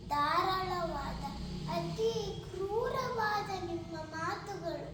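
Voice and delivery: anguished stage protest; Sita. Acted. Sita cannot bear her lord's cruel words, anguished protest. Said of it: "ಸೀತಾಮಾತೆಯ".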